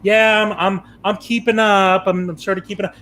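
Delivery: lightly voiced wife dawdling along; lightly imitating his wife saying she's keeping up; lazy dawdling wife. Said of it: "my wife has a tendency to sort of saunter".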